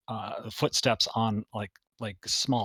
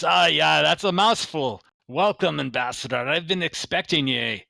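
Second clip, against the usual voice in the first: higher, louder shopkeeper voice; quartermaster voice; 5 semitones higher, 4 dB louder than usual. Acted. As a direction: greet the guests like an eager shopkeeper. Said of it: "He goes".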